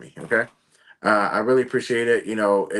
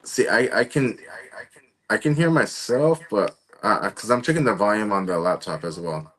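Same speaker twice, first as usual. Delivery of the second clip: distorted audio. Real, not acted. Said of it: "And you sound, like, distorted".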